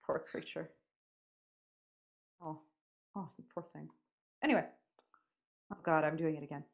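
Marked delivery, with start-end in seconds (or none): 0.1-3.9 soft, hushed words of sympathy; softly commiserate with him; pitying. Real, not acted. Reacting to his weary complaint.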